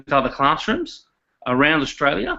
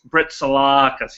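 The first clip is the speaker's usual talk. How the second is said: Brett Salakas in a slow, broad Australian drawl, vowels stretched; strong Australian drawl; slower than usual. Shown as a demonstration. Brett teaching the host to say his name, slow Australian drawl. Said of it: "a real strong Australian drawl".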